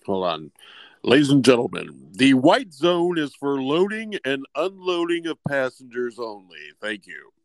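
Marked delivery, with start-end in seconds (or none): 1.0-7.3 airport announcement. Pretend. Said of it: "public service announcement".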